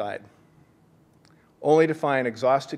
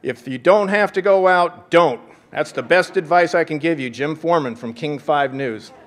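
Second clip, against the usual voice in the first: high, loud, chirpy newsman imitation; chirping TV weatherman; 4 semitones higher, 8 dB louder than usual. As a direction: do the upbeat local TV reporter. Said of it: "chirping out".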